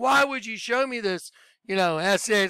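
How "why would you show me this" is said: play-acted, flung-out yell. Reenacting a moment of yelling at the ceiling, retelling a yell at the ceiling. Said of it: "I was yelling at the ceiling going".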